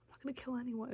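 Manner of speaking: softly imitated heartfelt denial; genuine. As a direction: say it quietly, as if truly meaning it. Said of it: "It was, like, so genuine".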